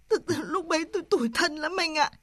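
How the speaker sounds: holding back tears while confiding; understated weepy self-pity; tearful. Acted. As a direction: let a little sob creep in. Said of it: "Không phải khóc nữa".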